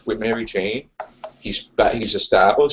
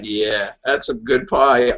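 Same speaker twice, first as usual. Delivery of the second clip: James Franco; 2 semitones lower, slower than usual. Retold or imitated. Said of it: "James Franco was like".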